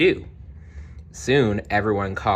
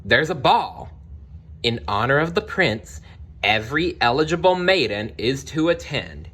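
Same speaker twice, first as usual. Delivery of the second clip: stepmother announcing; 5 semitones higher than usual. Acted. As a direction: proclaim the ball like a lightly voiced stepmother. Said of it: "Cinderella's stepmother announced".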